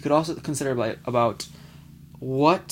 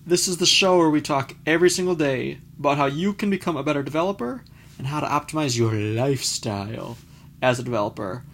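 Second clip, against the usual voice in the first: numb mouth after dental work; talking through a numb mouth; 3 dB louder than usual. Real, not acted. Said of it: "I'm talking kind of funny today".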